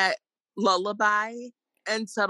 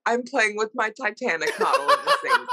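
laughing; 3 semitones higher than usual. Real, not acted. Laughing while joking.

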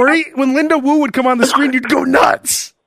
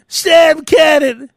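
mock sign-off; 2 semitones higher, much slower than usual. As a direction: announce your own name like a signature. Signs off declaration.

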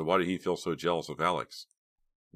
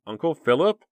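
high, loud call across a room; 11 semitones higher, 8 dB louder than usual. A narrator's reading. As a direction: call out for her uncle. Calling out in the dark.

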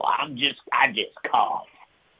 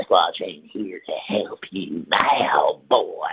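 taunting elf; 3 semitones lower, slower than usual. Acted. Elves taunt the frightened teller.

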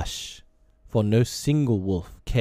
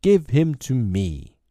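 louder, higher, slow demand; roaring demand; 4 semitones higher, 4 dB louder than usual. Acted. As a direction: roar it, insisting on the prey. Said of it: "roared Shere Khan".

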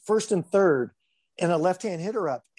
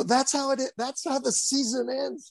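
blunt umpire; 8 semitones higher than usual. Retold or imitated. Voicing umpire Bill's reply.

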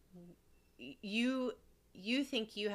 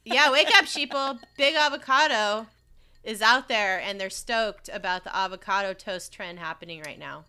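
loud ranting conspiracy nut; conspiracy theorist; 5 semitones higher, 11 dB louder than usual. Pretend. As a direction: rant it like a paranoid radio host. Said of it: "I'm the next big conspiracy theorist".

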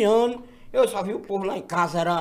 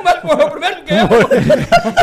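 laughing; 7 semitones higher, 7 dB louder, slower than usual. Real, not acted. Laughing at the doctor's death.

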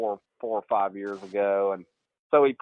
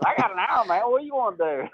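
laid-back Boo; 9 semitones higher than usual. Retold or imitated. Boo turns the reporter's question back, lazy mock voice. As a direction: toss it back casually, stalling her. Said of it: "He goes".

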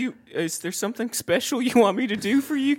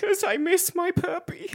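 mock crying; 4 semitones higher, 5 dB quieter than usual. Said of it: "Why are you crying?".

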